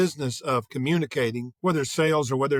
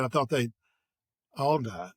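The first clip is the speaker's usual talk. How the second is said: "thought they'd all die" dropped to a lower tone; 3 semitones lower than usual. Retold or imitated. Doctor repeating his admission to the rep, in a lower tone. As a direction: bring the pitch down as he repeats it. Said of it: "but he said it with a lower tone".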